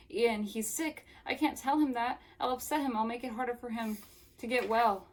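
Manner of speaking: acted panic. Wanda pleading to Ian about sick Jamie, mock panic. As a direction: plead with mild hammed-up distress.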